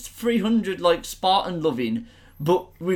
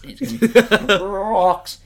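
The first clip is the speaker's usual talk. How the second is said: hammed-up drama; 3 semitones higher, 4 dB louder, slower than usual. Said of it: "in his head, he thought".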